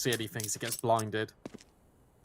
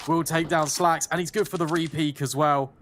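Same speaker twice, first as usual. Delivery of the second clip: excited caster; 3 semitones higher, 3 dB louder than usual. Real, not acted. Calling a key kill.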